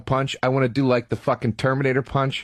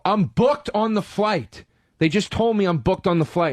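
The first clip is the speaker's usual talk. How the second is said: slow, raised insistence, retold; indignant protest; 5 semitones higher than usual. Passenger insisting to desk lady, indignant mock protest. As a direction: replay an exasperated passenger digging in.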